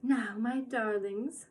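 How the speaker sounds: different, sweet voice. Acted. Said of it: "in quite a different voice".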